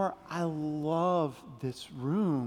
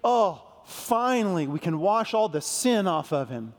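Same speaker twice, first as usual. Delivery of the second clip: hammed-up wrong version of God's words; mock relieved God; 4 dB louder than usual. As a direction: play the wrong God, tongue in cheek. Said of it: "Is that what God said?".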